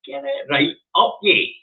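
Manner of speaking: high-pitched mocking quote of Angus. Mocking Angus telling Jack off. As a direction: squeak it up in a mocking imitation. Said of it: "telling Jack every day of the week".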